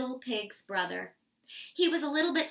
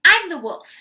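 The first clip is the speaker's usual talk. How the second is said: loud; 5 semitones higher, 13 dB louder than usual. A narrator's reading. Wolf introduces himself loudly.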